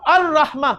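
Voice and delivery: अर-रहमा with no L, doubled rolled R; silent lam. Shown as a demonstration. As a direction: go from the A straight into a held R in अर-रहमा. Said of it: "इन दो लफ्जों में मैं लाम नहीं पढ़ रहा".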